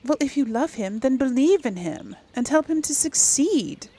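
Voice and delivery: a touch of in-character encouragement; player character's dialogue. Acted. Player voices advice to believe in him, lightly acted.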